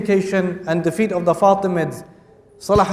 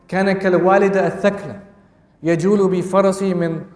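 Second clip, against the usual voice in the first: rapid classical recitation; much faster than usual. Acted. Recites Arabic quote.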